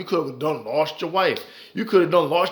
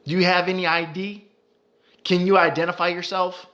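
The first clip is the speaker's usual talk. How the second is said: mocking cop voice; 3 semitones higher than usual. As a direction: needle him like a smug officer, pitched up. Acting out cop harassing grieving citizen.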